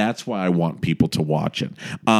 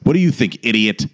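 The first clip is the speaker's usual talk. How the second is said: therapist voice. Retold or imitated. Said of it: "the voice of her therapist who keeps going".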